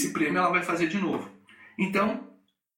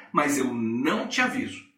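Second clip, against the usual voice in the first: usual speaking voice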